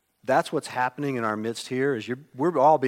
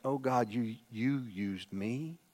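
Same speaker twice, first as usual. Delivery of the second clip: soft, slow, humbled wonder; humbled awe; 7 dB quieter, slower than usual. Pretend. A believer humbled after being used by God, soft and slow. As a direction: marvel quietly that God used you. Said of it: "It's like".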